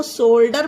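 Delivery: शोल्डर with a hard D; शोल्डर, D read as ड; common mispronunciation. Shown as a demonstration. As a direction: say शोल्डर ending in "der". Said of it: "कुछ लोग जिन्हें English नहीं आती".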